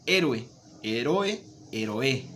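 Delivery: héroe, heroe, heroe, stress moved along each time, slow; walk the stress across the syllables slowly; shifting stress. Shown as a demonstration. Teacher moving the stress through each syllable, slowly. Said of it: "se escucha extraño cuando su carga tónica no va donde debe".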